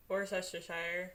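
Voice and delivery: Worcestershire said slowly, each syllable clear; careful pronunciation. Shown as a demonstration. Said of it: "I learned how to say".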